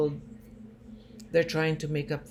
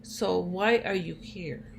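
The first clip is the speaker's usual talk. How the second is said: a little furious; 3 semitones higher, 4 dB louder, slower than usual. Retold or imitated. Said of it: "he gets a little furious and he says".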